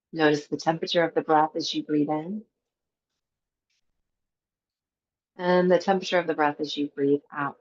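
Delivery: calm, even meditation guide with long pauses; guided meditation. Acted. Teacher guiding a breathwork class before Yoga Nidra, guided meditation. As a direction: lead them gently into the breath, leaving space between phrases.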